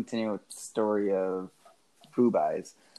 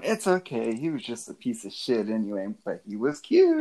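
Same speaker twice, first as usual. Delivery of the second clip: consoling stripper friend. Retold or imitated.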